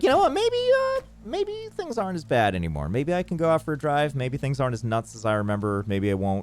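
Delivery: 假装乐观地自言自语，音调明显抬高; 高声天真地想着也许一切都变好了; hopeful inner voice. Retold or imitated. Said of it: "And I was like".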